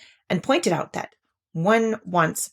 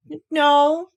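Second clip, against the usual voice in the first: airy, stammered no, louder; careless; 8 semitones higher, 6 dB louder than usual. Acted. Pooh brushing off Rabbit's question, careless. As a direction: shrug it off lightly. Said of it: "said Pooh carelessly".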